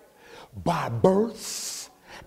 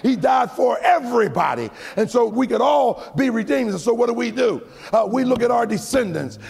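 preacher building to the altar call; preaching at full force; 3 semitones higher than usual. Acted. Preacher's closing climax.

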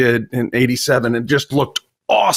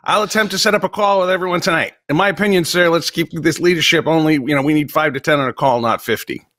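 dramatic reading. Pretend. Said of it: "I can do a dramatic reading".

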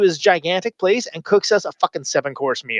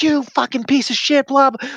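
retold insult; 8 semitones higher than usual. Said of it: "It was like".

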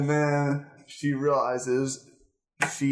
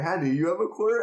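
higher, quick mock beggar; homeless dude voice; 6 semitones higher, much faster than usual. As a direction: rattle off the request in a silly voice. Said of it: "He's like".

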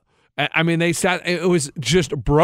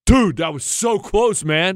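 drawn-out bro in a bad Australian accent; terrible Australian accent; slower than usual. Golfer cheering his mate's shot, terrible Australian accent. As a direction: attempt an Australian accent, badly. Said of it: "My Australian accent is so terrible".

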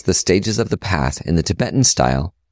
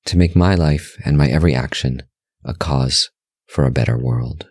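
guided meditation; 4 semitones lower than usual. Real, not acted. Host leading listeners through breath meditation, calm guided-meditation voice. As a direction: guide them gently in short, measured phrases, pitch settled and level.

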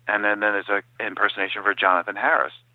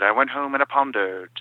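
Jonathan Harris impression; 4 semitones higher than usual. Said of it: "He said".

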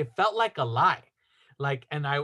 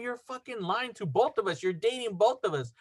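retold angry accusation; 4 semitones higher, 3 dB quieter than usual. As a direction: accuse them, replaying mild outrage. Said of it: "I was mad".

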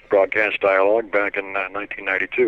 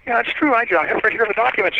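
high, small official voice, mock-serious; quiet little voice; 12 semitones higher than usual. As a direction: fake officer confirming, pitched high. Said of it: "kind of a quiet little voice".

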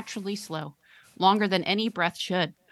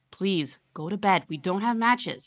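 mildly frightened plea; 2 semitones higher, 3 dB louder than usual. Acted. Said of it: "said the terrified mother".

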